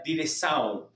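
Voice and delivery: Direção with a nasal ending, the final N fading; Direção en portugués, con la N final perdiéndose; Portuguese Direção. Shown as a demonstration. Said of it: "La N al final se va perdiendo".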